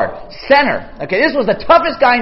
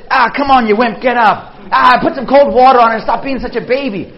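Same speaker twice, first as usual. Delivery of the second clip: mocking tough coach; 3 dB louder than usual. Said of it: "God looks at you crying and says".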